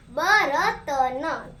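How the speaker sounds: बर्तन said very slowly, syllable by syllable; slow model word. Shown as a demonstration. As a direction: draw out बर्तन for the class. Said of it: "teacher models answer".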